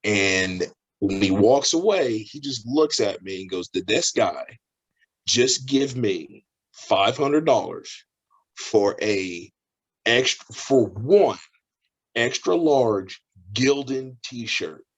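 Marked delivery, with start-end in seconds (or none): 3.7-14.8 slow, halting incredulity; drawn-out disbelief, phrase by phrase. Acted. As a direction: spell it out slowly, pausing as if stunned. Vendor stunned by the sale.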